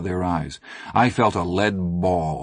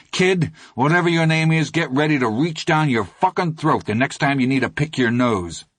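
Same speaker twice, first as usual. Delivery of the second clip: raging threat; 6 semitones higher than usual. Acted. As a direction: threaten through rage. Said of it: "knotted with rage".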